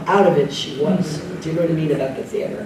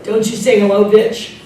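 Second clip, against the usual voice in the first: louder, brassy mock scold from a tough actress; tough diva; 3 semitones higher, 5 dB louder than usual. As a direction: snap it like a diva putting him in his place. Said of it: "and she says".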